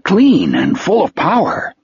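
a hint of simple wonder; Wolf, dreamy.

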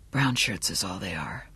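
very soft, low private musing; inner thought. A narrator's reading. Johnny dismissing the guards to himself, low quiet thought. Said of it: "Johnny thought".

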